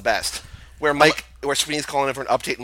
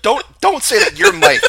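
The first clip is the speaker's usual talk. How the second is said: much higher, louder, slow laughing plea; laughing protest; 11 semitones higher, 10 dB louder, slower than usual. Real, not acted. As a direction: beg through laughter. Laughing protest, high loud slow.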